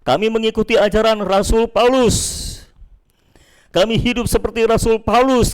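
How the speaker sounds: lightly acted group of loyal followers; Paul's faction. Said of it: "Ada kelompok yang menamakan dirinya".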